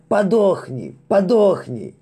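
high, loud, crazed repeated cry; frenzied yell. Acted. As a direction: scream it in mad fury. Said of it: "бесновато завопил кто-то".

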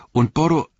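"Boro-" cut off abruptly, pitched high; word broken off. Acted. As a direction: break off mid-name at "Boro-". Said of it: "Er ließ das Wort abreißen".

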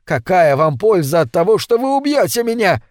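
high-pitched appeal to an attacker; pleading to be heard; urgent reasoning. A narrator's reading. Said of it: "попытался урезонить его Маклюр".

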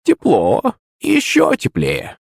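put-on high, drawn-out old crone voice, teasing; a sly old crone guiding the search; старушечий голос. A narrator's reading. Бабка подсказывает, старушечий голос. (высокий протяжный голос бабки)

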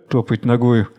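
ordinary delivery

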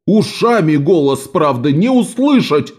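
high stage exclamation; exclaiming. Acted. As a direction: fling it out at the brother. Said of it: "воскликнул". (театральный возглас)

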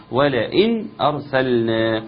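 ولئن with the nun said clearly before the hamza, slowly; clear nun demo. Shown as a demonstration. Teacher modelling the clear nun in ولئن, slow. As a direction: show the nun in ولئن fully. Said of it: "تظهرها جيدًا".

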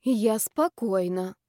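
slow, measured self-calming; self-soothing calm. Acted. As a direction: talk yourself down slowly. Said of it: "попробовала я себя уговорить".

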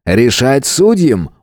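slow, evasive showman reply; evasive ringmaster. Acted. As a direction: dodge the question with a grin. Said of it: "уклончиво ответил тот".

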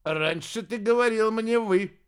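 a wizard's haughty rebuke; cold remark. A narrator's reading. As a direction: put the servant in his place, arrogantly. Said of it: "холодно бросил".

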